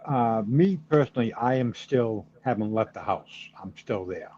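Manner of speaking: natural Boston accent. Real, not acted. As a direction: speak with a thick Boston accent. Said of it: "I hear your Boston accent there too".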